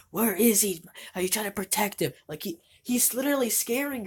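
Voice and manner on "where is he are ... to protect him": mild mock yell. Reviewer imitates Loomis yelling at Jamie, a mild mock yell. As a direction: press the girl like an angry doctor, half-hearted. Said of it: "he's yelling at Jamie".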